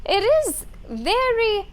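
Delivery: high, slow, stretched eerie voice. Acted. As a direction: linger on every word, eerie. Creepy voice, stretched very.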